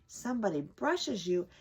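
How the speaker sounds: chatty squirrel lecturing the cat through the window; talkative squirrel. Acted. Squirrel talking to the cat through the window, chatty and preachy. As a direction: squirrel scolding a bored housecat.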